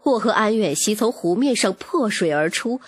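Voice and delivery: ordinary delivery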